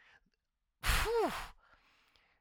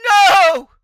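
higher, much louder refusal; defiant shout; 10 semitones higher, 15 dB louder than usual. Retold or imitated. Refusing his father's beer with a loud shout. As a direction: slam the door on temptation. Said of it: "And I'm like".

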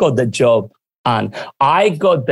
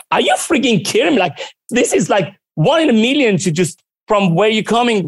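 much higher, thrilled Are you freaking kidding me; excited disbelief; 8 semitones higher than usual. Retold or imitated. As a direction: friend shrieking with delight at the news. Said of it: "She started screaming".

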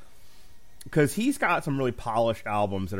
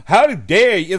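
loud, higher indignant snap; mock outrage; 9 semitones higher, 13 dB louder, slower than usual. Imitating the comic berating the crowd. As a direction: play it offended and loud. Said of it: "He's like".

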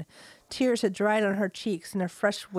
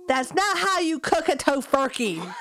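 wailing; 5 semitones higher than usual. Acted. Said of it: "she wailed".

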